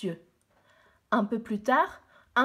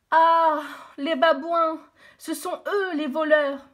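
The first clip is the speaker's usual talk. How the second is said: indignant; 4 semitones higher, 6 dB louder than usual. Acted. Discovers the thieving baboons.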